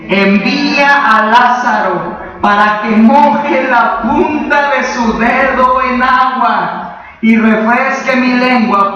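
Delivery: slow, stretched-out begging; acted tormented plea. Rich man asking Abraham for water, slow acted plea. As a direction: plead slowly, drawing out each phrase. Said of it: "¿Y después qué le pidió?".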